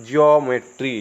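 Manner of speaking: ज्योमेट्री opening with a "jyo" glide; pronunciation demo. Shown as a demonstration. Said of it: "तो हम इसको क्या पढ़ेंगे?". (ज्योमेट्री को "जियो-मेट्री" बोलें)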